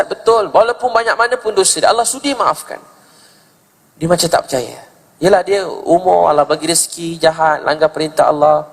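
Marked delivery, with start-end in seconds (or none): 0.0-2.8 high, insistent retold assurance; emphatic assurance. Ustaz assuring a doubting woman, high and emphatic. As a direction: confirm it firmly in a raised pitch.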